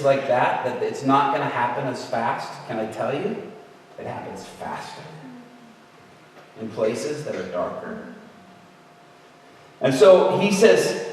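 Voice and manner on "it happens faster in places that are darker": whisper. Real, not acted. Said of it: "dramatic hushed aside".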